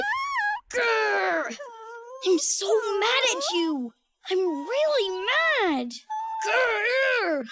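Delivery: put-on childish growling tantrum; angry. Brother whose toy was taken, angry. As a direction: growl and complain at a little sister.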